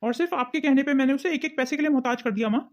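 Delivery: loud, fed-up son cutting her off; angry outburst. Acted. Son defending his wife against his mother, angry and loud. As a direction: stop her cold, you've had enough.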